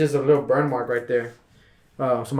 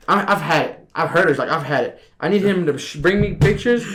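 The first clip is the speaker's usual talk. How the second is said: higher, mock fed-up boss; a hint of an irritated manager; imitating annoyed boss; 4 semitones higher, 4 dB louder than usual.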